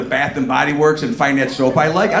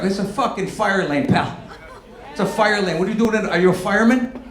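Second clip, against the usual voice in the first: mock yell; 4 semitones higher than usual. Yelling at fire lane parker.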